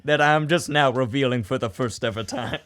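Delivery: put-on Southern accent. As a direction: play up a mock Southern accent. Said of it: "my Southern accent is infectious".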